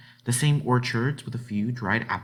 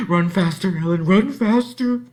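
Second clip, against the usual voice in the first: much higher and louder urgent cry; cried out; 9 semitones higher, 8 dB louder than usual. Acted. Girl cries to herself as she flees the woods. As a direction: cry out to push yourself on. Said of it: "she cried".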